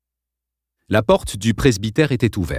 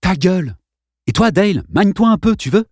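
curt command; 9 semitones higher than usual. A narrator's reading. Boy snaps at bully and Dale.

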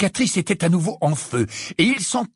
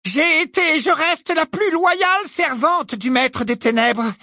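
cruel witch voice; 10 semitones higher than usual. A narrator's reading. Bellatrix lecturing Harry in a high, gloating witch voice. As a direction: savour each word like a cruel teacher.

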